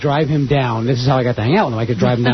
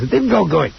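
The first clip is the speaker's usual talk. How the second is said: Gilbert Gottfried impression; 3 semitones higher than usual. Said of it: "that's a great Gilbert Gottfried impression".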